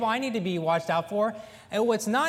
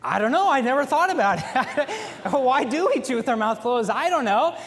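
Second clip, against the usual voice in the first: laughing; 2 semitones higher, 4 dB louder than usual. Real, not acted. Laughing at daughter's question.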